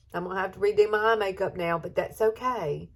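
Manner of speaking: brushing off the tears; teary but brave; tearful aside. Real, not acted. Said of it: "tears of joy".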